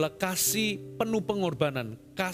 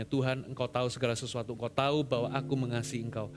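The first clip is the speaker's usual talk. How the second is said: low, subdued reading of a saddened reply; understated sadness; 9 semitones lower, 4 dB quieter than usual. Acted. Saddened Peter answers Jesus's third question, subdued and sad. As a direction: read it softly and low, with a touch of hurt. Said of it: "Maka sedih hati Petrus".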